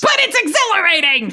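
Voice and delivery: high, thrilled cry; yelling between shots. Acted. Dawn fires at the creatures, yelling. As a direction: pitch it way up with giddy abandon. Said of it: "yelling between shots".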